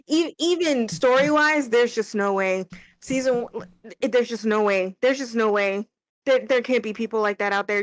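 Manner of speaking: rising disbelief, pushing each "no way" harder; venting outrage at fans who prefer season two; heated rant. Real, not acted. Co-host ranting to the stream about fans who liked the season, heated outrage. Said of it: "That crash out is getting clipped".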